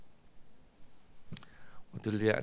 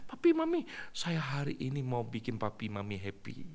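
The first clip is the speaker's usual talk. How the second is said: put-on excited child voice; 3 semitones higher than usual. Child greets parents excitedly.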